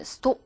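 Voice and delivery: "stop" with a rounded short o; British O. Shown as a demonstration. Teacher showing British vowel, "stop" with rounded o. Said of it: "O 발음에 가깝게 해서".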